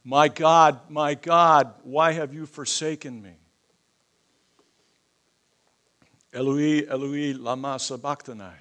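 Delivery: high, loud crying out to God; anguished cry. Shown as a demonstration. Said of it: "this is for emphasis".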